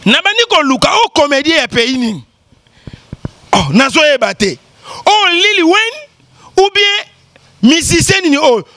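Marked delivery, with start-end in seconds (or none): 5.1-8.7 higher, very slow drawn-out wonder; mock puzzlement. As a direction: stretch it out, playing baffled. Imitating confused questioner. (étonnement moqué, aigu et très lent)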